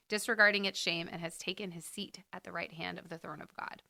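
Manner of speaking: measured, solemn reading aloud; scripture reading. Acted. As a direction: read it like a lectern. Reads scripture passage.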